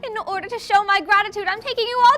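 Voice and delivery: imitating a posh pony thanking her friends, high and rising to loud; Rarity voice. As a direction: play the grand, gracious fashion pony. Narrator voicing Rarity's thanks.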